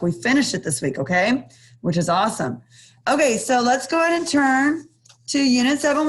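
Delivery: muffled through a mask; speaking behind a face mask. Real, not acted. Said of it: "I don't know why I'm wearing a mask right now".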